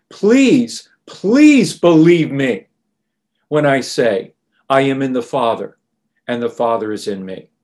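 earnest plea. Retold or imitated. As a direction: beg them gently to believe. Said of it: "with even more emphasis and more earnestness".

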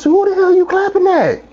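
high-pitched mock outrage; indignant retort. Server answering a lady who clapped at her, high indignant retort.

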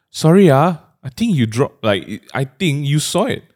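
sweet approach. Retold or imitated. Sweetly pointing out dropped trash to a stranger. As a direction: coax him gently, all sweetness. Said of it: "or does it have to be sweet?".

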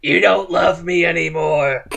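high, loud cartoon-wife complaint; plaintive put-on wife voice; Marge Simpson. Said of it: "my Marge Simpson impression".

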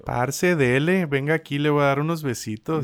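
light imitation of a Colombian paisa accent. Teasing his Colombian co-host, lightly imitating a paisa accent. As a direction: try on a paisa flirt, not quite pulling it off. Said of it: "Así sueno yo para usted".

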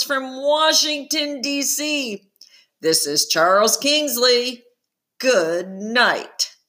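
lightly voiced smooth broadcaster; TV host sign-off. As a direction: wrap up the show like an anchor.

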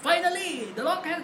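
mock the other kids' drawn-out mic call; kids imitating The Rock. Other kids at the fan meeting mimicking The Rock, high and very slow. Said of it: "หลายๆ คนก็แบบว่าถือไมค์มาก็".

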